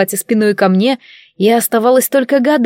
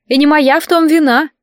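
higher, snide fish voice; snide familiar; 6 semitones higher than usual. A narrator's reading. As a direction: needle her with it. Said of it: "ехидно откликнулась рыбина".

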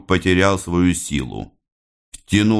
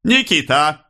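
raised pitch, rising at the end; unhurried summons; 9 semitones higher than usual. A narrator's reading. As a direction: summon «Никита» deliberately, lifting the ending. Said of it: "не торопясь, сказал Становой". (неторопливый оклик с подъёмом в конце)

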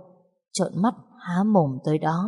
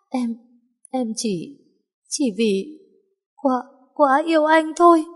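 halting excuse; 8 semitones higher than usual. Acted. Guilty wife making excuses.

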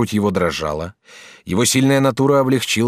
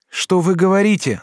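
high, louder alarmed question; a raised, high-pitched plea; shouted question; 10 semitones higher, 3 dB louder than usual. A narrator's reading. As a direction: cry it out in disbelief. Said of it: "закричал Асканио".

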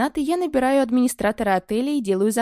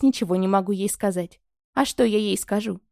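ordinary delivery, nothing marked

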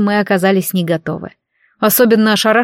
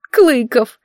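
sobbed name; 4 semitones higher than usual. Acted. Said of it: "всхлипнула Мадина".

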